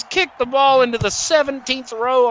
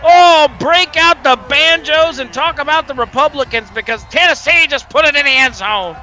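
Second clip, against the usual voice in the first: announcer hype; 4 semitones higher, 4 dB louder than usual. Pretend. Mock announcer celebrates touchdown.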